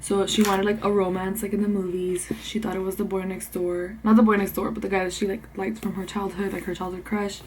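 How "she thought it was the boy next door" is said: soft whispered aside. Real, not acted. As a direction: say it under your breath.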